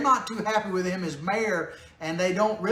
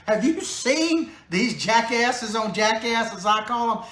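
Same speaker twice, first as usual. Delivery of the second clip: laughing; 3 semitones higher, slower than usual. Real, not acted. Mocking candidates, laughing.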